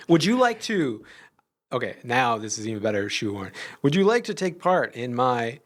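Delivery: spooky voice. Pretend. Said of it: "I don't know why I'm doing spooky voice".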